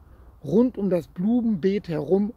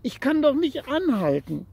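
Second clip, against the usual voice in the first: despairing; 7 semitones higher than usual. A narrator's reading. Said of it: "Er war ganz verzweifelt".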